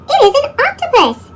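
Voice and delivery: high, playful reveal. A narrator's reading. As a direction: announce the octopus. Reveal of octopus.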